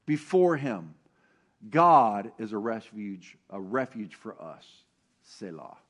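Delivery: slow, weighty recitation fading away to nothing; scripture reading. Acted. A pastor recites his favorite psalm slowly, fading at the end. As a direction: savor each phrase of the psalm. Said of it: "my favorite scripture in the whole Bible".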